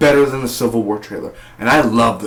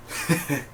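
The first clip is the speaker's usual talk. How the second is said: villain's laugh; 3 semitones higher, 7 dB quieter than usual. Retold or imitated. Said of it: "And Vandal's like".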